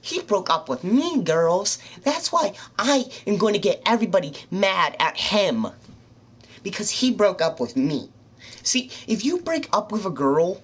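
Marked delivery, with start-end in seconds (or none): 0.0-8.1 higher, louder whiny complaint to her friends; mocking the ex-girlfriend. Ex-girlfriend rallying her friends, mock whiny and loud. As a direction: play her up as a dramatic victim. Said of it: "She's like".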